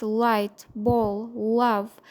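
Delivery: "light, ball, love" said slowly, L with tongue to palate; "light, ball, love" with relaxed, unrounded lips on the L; clear L practice. Shown as a demonstration. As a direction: drill the L in "light, ball, love", one word at a time. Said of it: "demonstrating the L sound".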